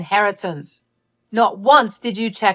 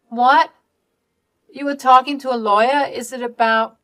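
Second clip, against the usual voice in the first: higher, louder, fast alarmed questions; shocked alarm; 6 semitones higher, 5 dB louder than usual. Acted. Daughter learning her parents met a lawyer, shocked and rushed. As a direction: blurt out your shock.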